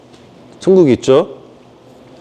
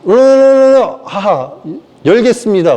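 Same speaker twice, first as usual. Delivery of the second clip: growling gatekeeper; 4 semitones higher than usual. Pretend. Heaven's gatekeeper growling at the newcomer, then opening the gate. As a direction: growl like a guard beast before opening.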